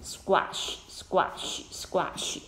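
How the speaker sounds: "Squash" said softly, fading each time; teacher repeating a word softly; soft repeats. Shown as a demonstration. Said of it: "压扁的意思".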